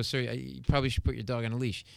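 softly spoken, slightly quick polite ask; retold gentle request. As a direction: nicely suggest it to a stranger. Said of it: "I was really nice".

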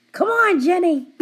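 loud, high coaxing yell; hammed-up pushy shout. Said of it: "all I do is yell at Jenny".

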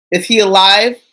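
mock threat from a worried grandmother; Neville's Gran. Gran fretting over whether her grandson is alive, lightly acted. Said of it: "what Neville's Gran should be thinking".

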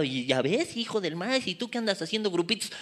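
mimicking a pointed aside, kept soft; mock nudging aside. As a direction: softly needle the person beside you. Mimics nudging gossip to neighbour.

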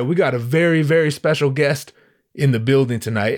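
measured emcee introduction, lightly imitated; hyping emcee. Host introduces a very special guest, mildly hyped. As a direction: retell an MC talking up a guest. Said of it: "he's gassing up".

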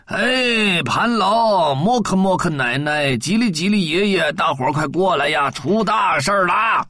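mild urgent shout to everyone; calling out. Acted. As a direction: call the neighbours over. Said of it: "大喊了起来".

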